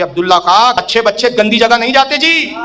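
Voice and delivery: slow, weighty scolding of a wayward disciple; a saint's mild mock wrath, slow and firm; stern majestic rebuke. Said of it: "بڑے جلال میں فرماتے". (جلال بھرے لہجے میں دھیمی ڈانٹ)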